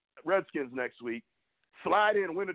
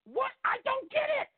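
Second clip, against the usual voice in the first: exasperated disbelief. Real, not acted. Host baffled by the Cowboys' play calling, shouting it up high. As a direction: throw up your hands and yell it out in disbelief.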